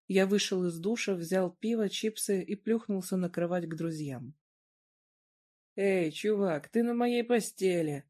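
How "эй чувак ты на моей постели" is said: grumbling. Acted. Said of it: "проворчал Мэтт".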